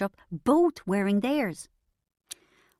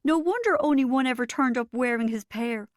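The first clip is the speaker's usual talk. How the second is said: a little higher, spent from laughing; croaked; 4 semitones higher than usual. Acted. Narrator croaking to Bridget after laughing fit. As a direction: croak it out hoarse. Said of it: "I croaked".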